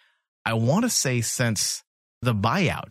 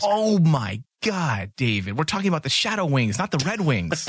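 higher-pitched exasperated scolding; mock outrage; 4 semitones higher than usual. Real, not acted. Mock-scandalised at crude joke.

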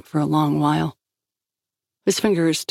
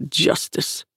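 whispered word. Acted. Antopov flinches at the word.

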